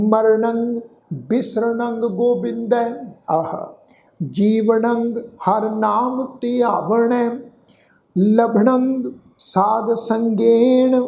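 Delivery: slow, drawn-out chanting of the verse; slow scripture recitation. Shown as a demonstration. Teacher recites the verse for the congregation, slow chant. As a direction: intone each word slowly and reverently.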